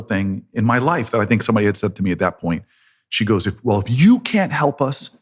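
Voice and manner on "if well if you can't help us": raised voice in argument. Retold or imitated. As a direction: throw it back as a mild, indignant challenge. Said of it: "We start raising our voice".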